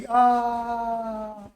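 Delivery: long, steady dying "aah"; mock dying groan. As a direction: act out expiring on one drawn-out groan. गुल्लक मर गई. (मरने का नाटकीय "आ")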